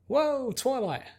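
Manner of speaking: high, slow, amazed exclamation; a girl gasping in wonder at her friend; bubbly Pinkie. Acted.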